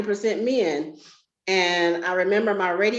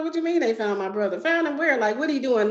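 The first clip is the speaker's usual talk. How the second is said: confused alarm; 6 semitones higher, faster than usual. Retold or imitated. Hearing they found her brother.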